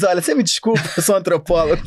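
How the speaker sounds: desculpa com o título de antropólogo; tom de esquiva. Shown as a demonstration. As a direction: escapa de um pedido de dinheiro. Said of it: "você diz". (soa como desculpa a quem pede dinheiro)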